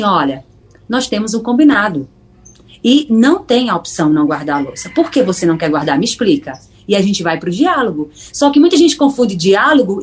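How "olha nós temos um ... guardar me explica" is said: lower, steady, reassuring parent voice; calm firm parent. Retold or imitated. Parent calmly asks child to put away the dishes, steady and low. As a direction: explain it gently but firmly, a little lower. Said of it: "Você vai falar assim".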